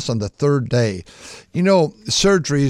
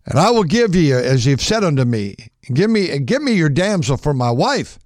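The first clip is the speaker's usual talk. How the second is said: eager bargaining father; 4 semitones higher than usual. Retold or imitated. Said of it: "the dad says".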